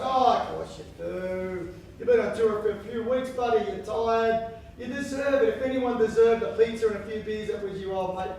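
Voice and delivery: a hint of a sweet-talking mate; Fat Wayne. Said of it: "Fat Wayne says".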